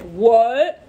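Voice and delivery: high, loud indignant disbelief; mock outrage. Friends shocked at Leo, mock outrage. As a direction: act shocked Leo won't meet. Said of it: "people who are like".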